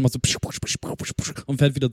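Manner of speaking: psch psch whispered like spraying jets; hissing sprinkler sounds while telling the story; sprinkler hiss noises. Retold or imitated. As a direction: imitate a sprinkler spraying in bursts. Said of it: "dann kommt halt so".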